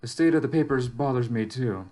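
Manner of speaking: measured first-person journal monologue; in-character story narration. Acted. Lone amnesiac survivor weighing clues about the relay station, measured narration. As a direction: think the mystery through aloud, evenly.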